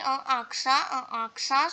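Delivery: "aksa" with the final T left silent; silent final consonants. Shown as a demonstration. French teacher reading examples, "aksa" with silent T. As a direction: say "uh, aksa" ending on an open vowel, no T. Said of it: "Here also T is not pronounced".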